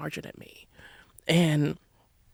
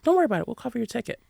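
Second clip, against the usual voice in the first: reassuring friend quoted, much higher; 5 semitones higher, much faster than usual. Retold or imitated. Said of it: "And I was like".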